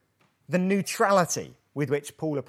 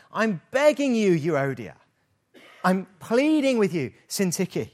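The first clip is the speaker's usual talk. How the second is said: animated begging; 3 semitones higher, 4 dB louder than usual. Acted. Paul begs the two women to agree, animated pleading. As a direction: urge them as if pleading in person. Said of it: "it's a very animated word".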